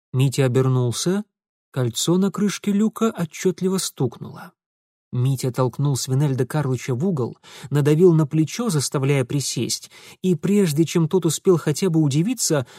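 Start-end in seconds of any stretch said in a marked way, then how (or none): none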